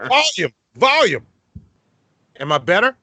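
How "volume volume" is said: raised-voice plea. Retold or imitated. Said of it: "So I'm like".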